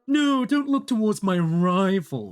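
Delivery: proud merchant pitch. Acted. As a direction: sneer at the rival and boast. Merchant badmouths rival.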